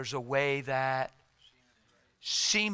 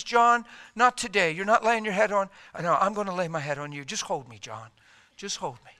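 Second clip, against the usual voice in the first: a hammed-up clingy Jesus; whiny then hushed; mock needy Jesus.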